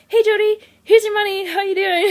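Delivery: high, loud fake-cheerful greeting; overly chipper, putting on a smile; forced cheer. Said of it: "I was trying to smile".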